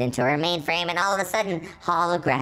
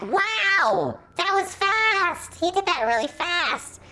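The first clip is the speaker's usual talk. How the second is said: excited squeal; 13 semitones higher, slower than usual. Real, not acted. Reader squealing at the sudden rescue, thrilled.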